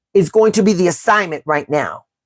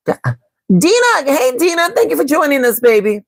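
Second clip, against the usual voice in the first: excited greeting; 7 semitones higher than usual. Real, not acted. Greeting a viewer warmly.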